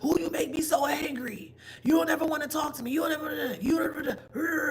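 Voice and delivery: high, whining accuser near tears; mock whiny complaint. Mimicking someone upset that you won't talk to them, high and whiny. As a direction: whine like the accuser who feels ignored. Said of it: "and you".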